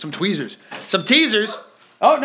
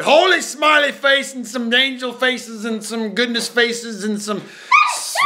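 excited reading; 2 semitones higher, slower than usual. Real, not acted. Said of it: "reading faces aloud".

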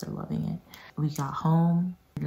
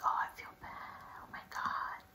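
hushed, guilty mock whisper; very soft, remorseful aside; retold guilt; 12 dB quieter, faster than usual. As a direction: whisper it to yourself with regret. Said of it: "I felt bad".

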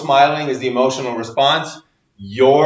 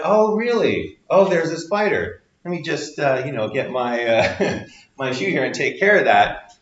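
calm parent. Retold or imitated. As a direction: play it cool for the kids. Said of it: "we're kinda like".

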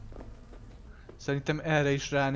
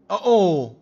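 surprised gasp; 4 semitones higher, 11 dB louder than usual. Real, not acted. Sudden event in game.

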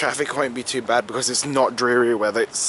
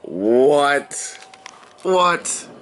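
rising disbelieving what; shocked and thrilled; incredulous squeal of what; stunned fangirl what. Real, not acted. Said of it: "this is me fangirling right now".

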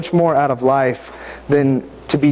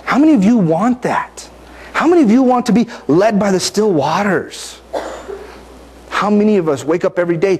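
fervent appeal; 5 semitones higher than usual. Real, not acted. Preacher urging listeners toward the still waters, fervent and raised. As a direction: rouse the room with the question.

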